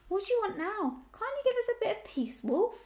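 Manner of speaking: high-voiced grumbling old ewe; hoarse, complaining. A narrator's reading. Old ewe telling a supposed wolf off, hoarse and complaining. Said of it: "a hoarse, complaining voice".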